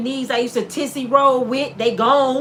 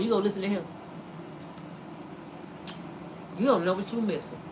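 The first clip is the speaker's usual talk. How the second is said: seductive whisper; 6 semitones lower, 12 dB quieter, much faster than usual. Acted. Eve keeps tempting Adam.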